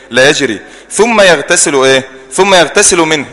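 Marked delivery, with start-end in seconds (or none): 0.9-1.7 يغتسل with a final short u, slow and clear; damma on يغتسل. Shown as a demonstration. Teacher showing students the vowel, damma voiced on يغتسل. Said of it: "اللام عليها إيه؟ عليها ضمة". 2.3-3.3 يغتسل منه linked with a clear u; damma on يغتسل. Shown as a demonstration. Teacher modelling the hadith's wording, final u sounded in يغتسل. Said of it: "اللام عليها ضمة".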